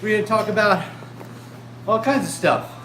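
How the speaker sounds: put-on loud, chirpy children's TV host; overbright kids party host. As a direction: beam at the kids, loud and eager. Kids show host greeting.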